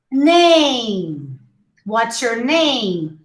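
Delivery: name ending on a full m; closed-lip final M. Shown as a demonstration. Teacher models name with a clear final M. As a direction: close the lips to finish name on m. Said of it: "touch your lips to produce the M sound".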